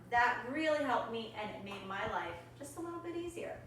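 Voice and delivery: soft, sincere farewell read from notes; teacher says goodbye to her students in a clip, soft and sincere; recorded goodbye message. Real, not acted. Soft recorded farewell.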